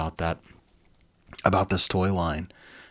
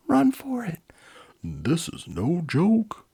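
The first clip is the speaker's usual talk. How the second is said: panicked bystander; 11 semitones higher, 5 dB louder, slower than usual. Acted. Fleeing bystanders cry out.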